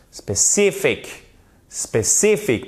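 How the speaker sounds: SPECIFIC slowly, pitch jumping up on CI; stressed second syllable. Shown as a demonstration. Teacher shows French learners the English word, stress on CI. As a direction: punch the CI in SPECIFIC, English style. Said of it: "c'est l'accent tonique".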